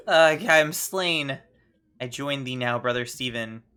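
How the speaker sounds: die dramatically through a laugh; hammed-up dying groan; mock death.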